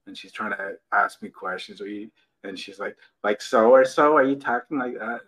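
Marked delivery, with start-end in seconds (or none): 3.2-5.2 put-on valley girl voice. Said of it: "She talks like a valley girl".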